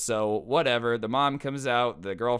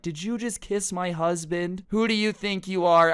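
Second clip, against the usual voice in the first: higher, louder furious accusation; angry confrontation; 7 semitones higher, 3 dB louder than usual. Retold or imitated. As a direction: confront her like an outraged wife. Mom confronting girlfriend who kissed dad.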